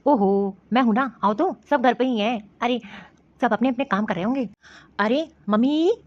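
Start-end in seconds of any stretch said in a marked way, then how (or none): 5.0-5.9 calling for mother, voice raised and rising. Acted. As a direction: son calls his mother from the doorway, voice raised. Son calling mother from the door.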